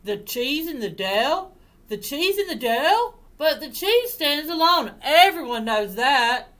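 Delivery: loud, high dog voice; rising disbelief, then loud doggy insistence; astonished dog. Acted. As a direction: exclaim like an incredulous dog. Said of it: "said the dog".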